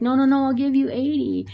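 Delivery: high-pitched imitated backtracking; retold hasty protest. Date raising his offer after offending her, high imitated protest.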